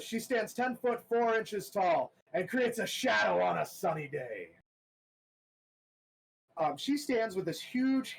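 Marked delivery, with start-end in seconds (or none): 0.0-4.5 a hint of the announcer, a bit higher. Announcer describing Abigail to the crowd, lightly voiced. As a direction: lightly hype the fighter's size. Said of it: "the announcer says".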